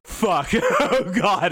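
hammed-up dismay breaking into laughter; mock panic. Voicing the crew as they get fucked up, mock panic. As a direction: play at panicking, laughing through it.

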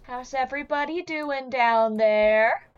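slow, drawn-out question through the teeth; hissed through teeth. Acted. Lexi calling to those down the stairs, through her teeth. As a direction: hiss it through clenched teeth. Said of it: "hisses through her teeth and says".

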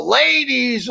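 lightly done cartoon Boston accent; a quick Boston accent jab; Bill Burr Boston accent. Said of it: "I can do a cartoon Boston accent".

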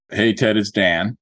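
measured, deliberate script dictation; slowly, so it can be written down. Shown as a demonstration. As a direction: say it slowly for note-taking. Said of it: "I'm gonna say it slowly".

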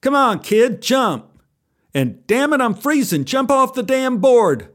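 fed-up yell from the queue; angry. Acted. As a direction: voice freezing divers impatiently urging a kid on. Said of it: "they were getting angry".

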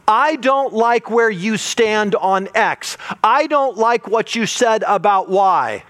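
slow, emphatic imitation of a complainer; offended complaint. Churchgoer objecting to the preacher's stance, mock offended. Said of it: "something's happening that has offended you".

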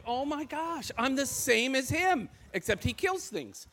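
playful startled discovery; amused surprised aside; surprised realization. Retold or imitated. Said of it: "I'm like".

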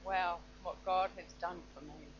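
nervous trembling voice; shaky vibrating voice. Real, not acted. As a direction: voice shaking with stage nerves. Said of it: "Sorry, my voice is shaking".

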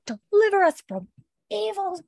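high-pitched mock plea to heaven; horrified prayer. Marcelly praying over the opened body, horrified. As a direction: wail the prayer in hammed-up terror.

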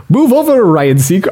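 quick high jab at the name, then giving up on it; King Julian voice attempt. Shown as a demonstration. Podcast host tries the cartoon lemur's voice and quits. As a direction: start the lemur king's line, then abandon it. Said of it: "I'm not doing the accent".

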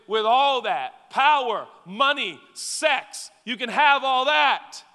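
loud, high, pleading voice; loud imagined prayer to God. Pretend. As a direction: beg God, holding back one thing. Voicing a believer praying to God.

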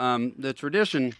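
chewing while talking; mouth full. Real, not acted. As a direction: speak around a mouthful of food. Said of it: "you got me right as I got it in my mouth there".

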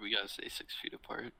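fast mock whisper. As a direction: hiss it as a secret joke. Joking distance rule.

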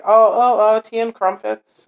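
high, fussy mock-British voice; mock British accent. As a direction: parody British accent, hammed-up. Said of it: "they all have British accents".

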